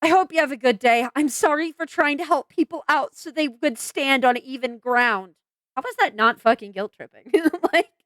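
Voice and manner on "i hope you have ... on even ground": mock sweet read. Shown as a demonstration. Reading the apology note in a mock innocent voice. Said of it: "I have to read this like this".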